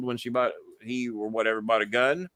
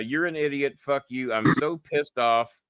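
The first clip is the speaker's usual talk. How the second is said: reading threat; 3 semitones higher than usual. Retold or imitated. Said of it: "reading scammer message".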